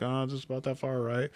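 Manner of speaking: soft, under the breath; muttered estimate. Retold or imitated. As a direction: judge the distance to yourself. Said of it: "So I'm trying to, like".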